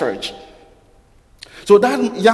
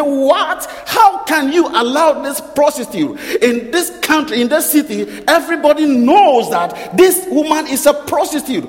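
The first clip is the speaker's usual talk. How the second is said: outraged critic, voice pitched higher and pushed; indignant Pharisee; 5 semitones higher than usual. Acted. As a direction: scold him in high indignation. Pharisee scolding about the prostitute.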